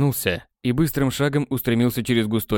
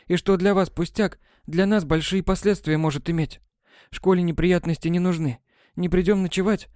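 put-on higher, matter-of-fact girl explaining the obvious; lecturing schoolgirl; 7 semitones higher than usual. A narrator's reading. A girl setting a boy straight, higher and matter-of-fact. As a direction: talk down to him patiently.

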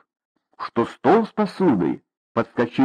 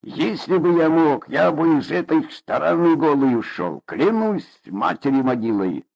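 wistful envy; 4 semitones higher than usual. Acted. Father envies emigrants.

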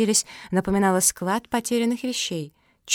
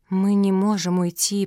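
mildly stretched, level plea; drawn-out protest. Acted. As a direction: draw the words out a little. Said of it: "протянула Феня".

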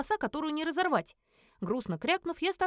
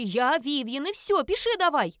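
hissing at clumsy paws, breaking into a shout; frustrated hiss; 5 semitones higher, 5 dB louder than usual. Acted. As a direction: pitch climbing into a strained, louder cry. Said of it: "шипела я на свои неуклюжие лапы".

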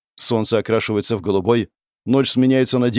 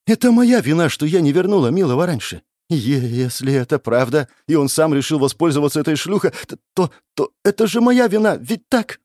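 frantic self-blame; 6 semitones higher than usual. Acted. Goddess frantically blames herself.

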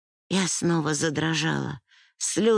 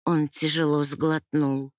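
ordinary delivery

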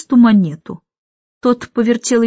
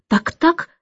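high rising Так-так; Так-так lifted high with a rise; in varied tones; 8 semitones higher than usual. A narrator's reading. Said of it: "на разные лады".

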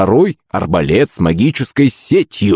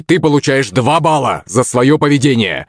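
light bark; 6 semitones higher than usual. Acted. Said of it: "гаркнул Хрякин".

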